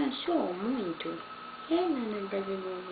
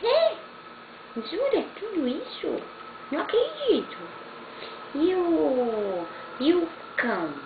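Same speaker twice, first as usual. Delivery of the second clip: delighted disbelief; 9 semitones higher, 6 dB louder than usual. Real, not acted. Grandma thrilled at baby's babble.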